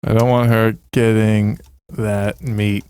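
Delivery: slow, drawn-out Tiger King read. Shown as a demonstration. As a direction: stretch every word out. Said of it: "It's my meat".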